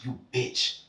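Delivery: slow whispered insult; a slow, voiceless whisper of a kid's curse; hushed retold curse. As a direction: breathe it out under the breath, slowly. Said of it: "And I said".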